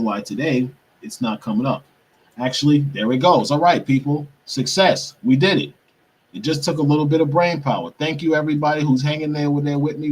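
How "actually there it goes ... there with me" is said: higher, lifted, celebrating delivery; excited triumph. Real, not acted. Streamer to viewers once the search works, excited triumph. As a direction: announce the win to your audience.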